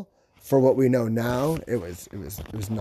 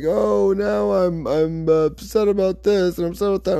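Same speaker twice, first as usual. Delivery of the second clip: mock diva complaint; 7 semitones higher than usual. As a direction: play the star sulking over everything. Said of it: "he's being a diva".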